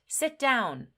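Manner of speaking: sharp classroom command; stern command. Shown as a demonstration. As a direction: order the student to sit. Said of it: "If a teacher says to a student".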